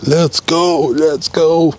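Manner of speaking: high, bright call to come outside; sing-song call to the house; calling Mama Bear out the door. Real, not acted. Calling wife out to surprise.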